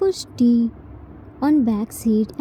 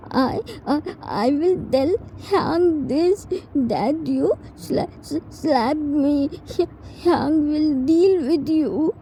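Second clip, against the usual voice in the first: tearful stammer; 4 semitones higher than usual. Acted. T crying and threatening to tell Hyang, stammering. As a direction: stumble over the words, half crying. T crying, holding slapped cheek.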